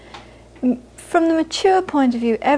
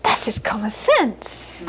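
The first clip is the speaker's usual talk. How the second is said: mother's dry verdict; 4 dB quieter, slower than usual. Retold or imitated. Mother's matter-of-fact verdict.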